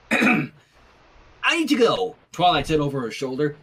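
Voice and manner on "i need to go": rushed exit. Acted. Twilight leaving.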